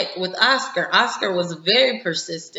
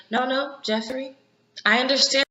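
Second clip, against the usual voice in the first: retold gentle shushing, pitched up; placating; 6 semitones higher than usual. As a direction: raise the pitch and soften to pacify him. Acting a woman placating Jeffrey.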